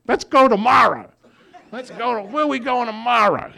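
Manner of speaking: high, laughing excitement; eager laughing voice. Retold or imitated. Newly cheerful newcomer after the road trip, high laughing eagerness. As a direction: bubble over with eagerness. Former grump now eager.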